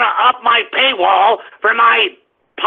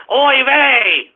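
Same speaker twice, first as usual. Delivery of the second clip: mock Ben Shapiro oy vey; 3 semitones higher than usual. Host mocks Ben's paywall fans, lightly put-on voice. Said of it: "to hear me say".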